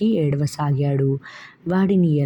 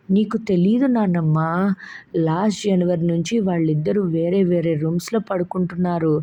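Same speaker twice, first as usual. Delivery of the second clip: put-on child bursting into tears; 3 semitones higher than usual. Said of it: "బావురుమన్నాడు Shubham".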